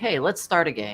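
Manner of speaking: plain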